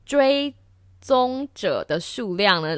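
slow, careful lisping through braces; fighting the braces to get it out. Real, not acted. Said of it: "戴了牙套之后大舌头".

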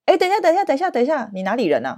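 quoting the interviewer who interrupts; imitating interviewer. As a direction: stop her mid-sentence like a puzzled interviewer. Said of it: "面试官突然说".

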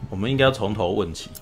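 usual speaking voice

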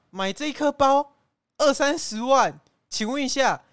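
high, loud mock scolding of the wife. Scolding wife over pricey bag.

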